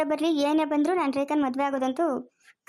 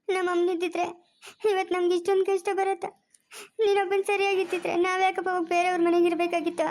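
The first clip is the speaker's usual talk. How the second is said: higher, tearful reproach; tearful pleading; 5 semitones higher than usual. Acted. Daughter reproaching her father, tearful and pitched high. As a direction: plead through tears, voice raised high. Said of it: "ಅಳ್ಬೇಡಮ್ಮ".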